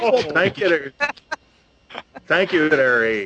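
put-on dwarf character voice with a Canadian accent. A dwarf character answers a compliment on his toque: Canadian-accented dwarf voice. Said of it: "sounds like a Canadian dwarf to me".

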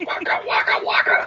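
whispered puppet-character voice. Taking up a challenge to whisper as a favorite Muppet: whispering as a Muppet. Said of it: "Whispering as your favorite Muppet".

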